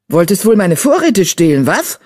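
mild hissing accusation; spitting hiss. Acted. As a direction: snap it at the supposed thief. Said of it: "fauchte sie".

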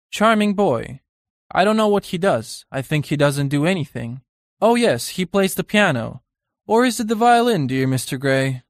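gushing society hostess. Retold or imitated. Painter mimics Lady Brandon introducing Dorian, high mock gush. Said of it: "Oh, something like".

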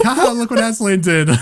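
high, forced ha ha ha; hammed-up theatrical laughter; mocking stage laugh. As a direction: cackle down at the villain.

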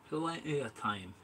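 slow, half-hearted fake Scottish accent; a hint of a Scottish fisherman. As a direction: drawl it out in a put-on Scottish lilt. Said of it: "went all weird and fake Scottish then".

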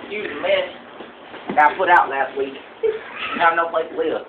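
rambling backwoods trophy-room tour guide; lightly voiced country hunter; hillbilly hunter character. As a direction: play a proud, dim redneck hunter showing off.

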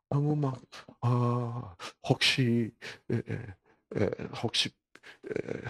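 halting, apologetic mock politeness; overcautious hesitancy. Patient afraid of bothering the tired doctor, hesitant and cautious. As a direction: tiptoe into the request with stammered hedges. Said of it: "조심스러워".

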